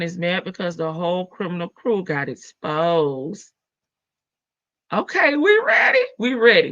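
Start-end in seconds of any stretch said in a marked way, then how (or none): 4.9-6.7 high, loud burst of hype; rally the chat, it's starting now; excited announcement. Real, not acted. Host tells chat the show starts, real excitement. Hyping chat before hitting play.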